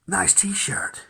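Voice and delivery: excited singer. Retold or imitated. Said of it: "the singer goes".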